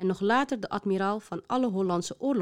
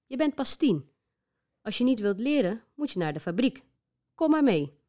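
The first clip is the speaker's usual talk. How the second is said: streng en luid de zoon toespreken; strenge vader; 5 semitones higher, 3 dB louder than usual. Acted. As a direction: een vader die geen tegenspraak duldt. Strenge vader spreekt zoon toe. (vader spreekt zoon streng toe)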